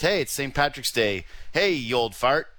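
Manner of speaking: playful mocking voice; mock old-fart greeting. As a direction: poke fun at a dull adult's holiday. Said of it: "And now it's just".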